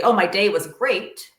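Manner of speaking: slow, put-on cheerful brush-off; fake cheerful. Parent to child, hiding a bad day, mock bright cheer. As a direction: pretend the day went fine, drawn out a little. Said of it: "you don't lie and say".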